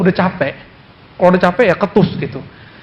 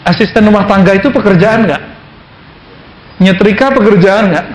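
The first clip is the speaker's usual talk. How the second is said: emphatic questions; 4 dB louder than usual. Real, not acted. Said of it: "rhetorical questions to audience".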